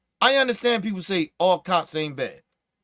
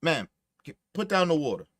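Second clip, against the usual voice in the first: softer polite request, please trailing off quiet; nicer, polite; 6 semitones lower, 6 dB quieter than usual. Shown as a demonstration. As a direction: ask her calmly and respectfully. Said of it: "Or you could have been nicer about it".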